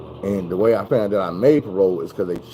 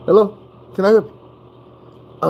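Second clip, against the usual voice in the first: high, slow, sugary phone-voice politeness; sweet fake-nice door greeting; mock polite mother at the door; polite mama; 10 semitones higher, 5 dB louder, much slower than usual.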